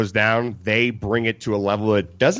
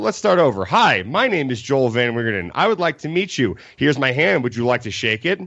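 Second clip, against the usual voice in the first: snarky. Retold or imitated. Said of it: "Being really snarky about it".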